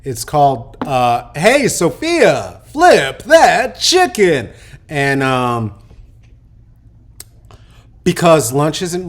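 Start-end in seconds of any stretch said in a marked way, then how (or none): 1.3-4.5 louder, slow, drawn-out title call; title announcement. Acted. Host announcing the game title to viewers, hammed-up. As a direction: sell the game name like a showman.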